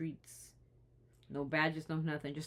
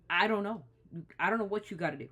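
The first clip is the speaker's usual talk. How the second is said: exasperated outburst; 4 semitones higher, 6 dB louder than usual. Real, not acted. Exasperated outburst over the killings.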